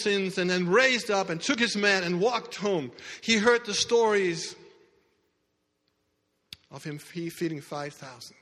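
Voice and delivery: steady storytelling sermon voice; preaching. Acted.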